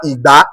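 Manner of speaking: "Igba" ending on a rising tone; tone demonstration. Shown as a demonstration. Teacher showing tonal language to learners, tone demonstration. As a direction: let the end of "Igba" lift. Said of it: "it is only the tone that will change".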